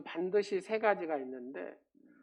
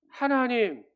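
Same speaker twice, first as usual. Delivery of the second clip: mock wailing cry; 5 semitones higher, 8 dB louder, slower than usual. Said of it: "고래고래 외치는 겁니다".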